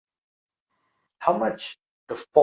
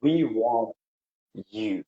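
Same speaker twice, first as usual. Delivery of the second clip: the faithful few answering God calmly; calm and patient; 3 semitones lower than usual. Acted. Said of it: "very calmly, very patient".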